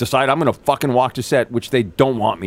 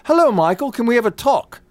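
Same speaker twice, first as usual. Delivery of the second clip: high-pitched mock English accent; imitated English accent; 13 semitones higher, 3 dB louder than usual. British actor asking Michael for a talk, mock English accent. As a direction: put on an exaggerated polite English accent, high. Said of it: "he has an English accent now".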